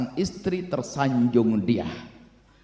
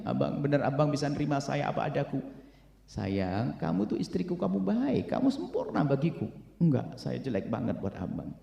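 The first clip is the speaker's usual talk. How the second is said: hushed couple's exchange; 7 dB quieter than usual. Acted. Acted couple dialogue, hushed.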